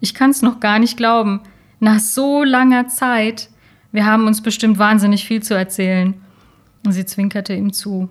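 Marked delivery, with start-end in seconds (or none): 0.0-6.1 overjoyed. Acted. Overjoyed reunion after years.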